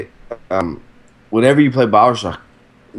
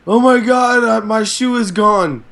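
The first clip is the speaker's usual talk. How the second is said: high-pitched imitation of a raving yell; mock yelling; 11 semitones higher than usual. Imitating the psychotic people yelling random things in the game, high mock yell. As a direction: imitate a crazed game enemy's outburst. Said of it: "they're yelling random things like".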